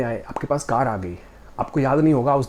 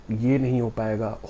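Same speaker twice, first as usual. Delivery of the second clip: mild defeated murmur of ये नहीं हो पाएगा; understated hopeless self-talk; doubtful; 2 semitones lower than usual. Shown as a demonstration.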